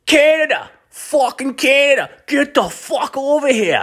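hollering a nickname to flag him down; calling out. Retold or imitated. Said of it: "I hear this".

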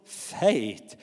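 slow, searching question with a lift at the end; gentle rebuke, slow. A narrator's reading. Jesus asking Peter why he doubted, slow and gentle. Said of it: "he says".

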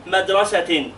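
MADRASATIN, ending in a clear "-tin"; tanween kasr. Shown as a demonstration. Teacher models the pupil's task, MADRASATIN with kasr ending. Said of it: "نونيها بالكسر".

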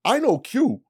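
mock outrage, voice pushed up; angry friend. G's angry rant in story.

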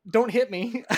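mock pleading. Retold plea to a scolding dad.

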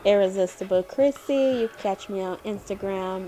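talking around a pencil in mouth. Real, not acted. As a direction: speak with a pencil between teeth. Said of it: "I got a pencil in my mouth".

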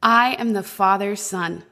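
slow, steady "I am the Father's son"; slow self-reassurance. Retold or imitated. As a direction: say it slowly to yourself. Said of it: "He just said that to himself".

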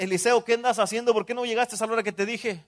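hammed-up reprimand, calling the name out loud; playing the scolding mentor for the congregation; stern scolding. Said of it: "A veces me regaña, me dice".

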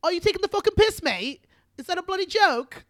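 loud, high Geordie impression; Newcastle accent. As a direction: put on an outraged Newcastle accent. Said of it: "I can do, like, a nice, like, Newcastle".

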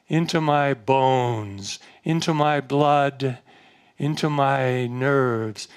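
drawn-out invocation with long, stretched phrases; slow, felt prayer. Shown as a demonstration. Preacher showing listeners how to call on Divine Mother, slow heartfelt prayer. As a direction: pray it slowly, phrase by phrase, easing down at the end. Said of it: "do it slowly and feel it".

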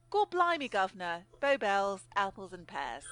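hammy Cockney exclamations; mock Cockney chairman; victorian cockney. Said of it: "it only remains for me to observe".

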